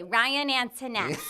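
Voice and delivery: slow nasal Chicago mom; mom's Chicago voice. Retold or imitated. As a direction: call the name like a South Side mom. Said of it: "my mom sounded like Fran Drescher".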